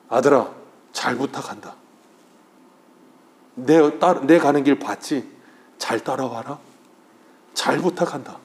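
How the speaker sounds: entrust it gently, like a father's last request; tender charge. Retold or imitated. Lord voiced speaking to believers.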